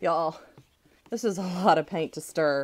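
winded, breathing hard between words. Telling viewers while stirring a lot of paint, out of breath. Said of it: "I'm out of breath".

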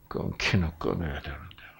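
grave muttering, very low pitch, very quiet. Speaker retelling a friend stubbing out a cigarette, mock-serious muttering to himself. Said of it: "심각한 목소리로 혼잣말로 중얼거리는".

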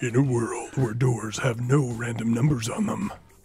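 film trailer narrator voice. After someone says he can do one, performing a movie trailer voice. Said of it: "He can do a trailer voice".

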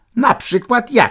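saucy, cocky voice at very high pitch. Told a critic was right about her weak points, she fires back, tossed out cockily. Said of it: "Rzuciła czupurnie".

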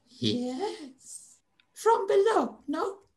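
slow, loud, furred winged bat creature voice. In a role-playing game, voicing a bat creature questioning the party, in a bat creature voice. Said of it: "And you see a stunt-nosed, wrinkled face with tiny eyes, humongous triangular ears that twitch and flick in various directions. And wrapped around the slightly pale furred body are white skin wings. And you see clawed feet tapping nervously on ... It's a very strange voice".

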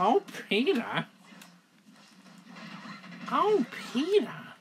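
called out in a high cartoon housewife voice. Calling out to Peter while joking around about a game, sounding more like Marge Simpson. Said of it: "That sounds more like Marge from the Simpsons".

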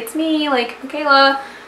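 timid, meek, tiny, shy little voice. Retelling answering the birthday girl's call through the door: retelling a small shy voice. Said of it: "In my little shy voice".

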